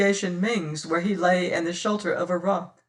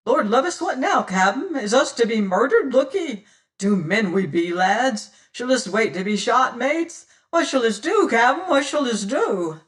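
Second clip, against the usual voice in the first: loud, higher panicked questions; dismayed cries; 6 semitones higher, 6 dB louder than usual. Acted. Frightened pirates crying to their captain, loud and high. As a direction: panic as the crew fears being shot. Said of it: "clamor of oaths, cries, and dismayed questioning".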